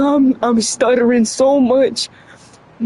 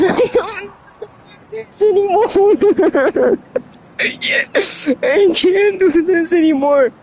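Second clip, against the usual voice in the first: laughing; 6 semitones higher than usual. Real, not acted. Laughing at own blunder.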